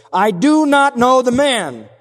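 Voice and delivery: loud, high, drawn-out disavowal; adamant, forceful oath; emphatic denial. Acted.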